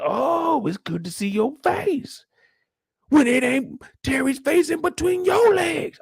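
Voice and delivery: high, mocking diva voice; catty taunt. Mimicking a reality show insult in a high mocking voice. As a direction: sneer it up high and sweet. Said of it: "But she said".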